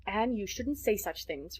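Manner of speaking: slow, lightly stern rebuke; a hint of a stern guardian; mild rebuke. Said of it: "rebuked Marilla".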